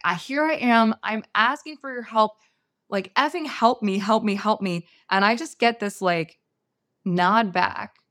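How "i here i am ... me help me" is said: begging through gritted frustration; angry pleading. Retold or imitated. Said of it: "screaming in my head at the medicine".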